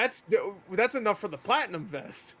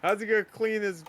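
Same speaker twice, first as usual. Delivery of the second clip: mock pity; 4 semitones higher than usual. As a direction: gush over the poor streamer. Mocking a sympathetic donor.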